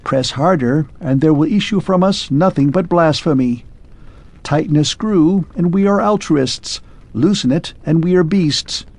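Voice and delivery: a mechanical man musing on his makers; clockwork man. Acted.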